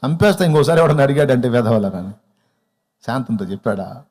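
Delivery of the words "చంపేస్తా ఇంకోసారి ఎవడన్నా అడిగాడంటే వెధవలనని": mock threat. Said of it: "ఎట్ట చెప్పాడు?".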